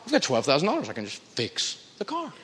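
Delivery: voiced inner thought, trailing very soft; low, hushed thinking to oneself; quiet realization. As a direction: let it sink in softly. Voicing a calm realization.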